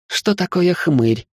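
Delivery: put-on girl curiously asks about the word, slow. A narrator's reading. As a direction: ask it slowly, genuinely curious. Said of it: "с любопытством спросила Ника".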